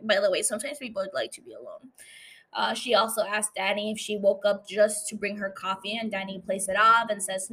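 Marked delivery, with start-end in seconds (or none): 0.0-1.9 quick, casual throwaway tone; offhand aside. Retold or imitated. Jamie brushing Danny off, a quick offhand aside. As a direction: toss it off fast like a passing remark. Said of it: "But she says it in, kinda like".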